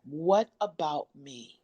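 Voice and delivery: sit with "What about me?", unhurried and inward; a slow, reflective "What about me?" on a falling close; slow, present. Shown as a demonstration. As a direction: slowly say "What about me?", letting each word land. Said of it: "I want you to really be present with that".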